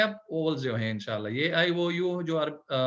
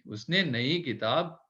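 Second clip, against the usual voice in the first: slow model sentence; 2 semitones lower, slower than usual. Shown as a demonstration.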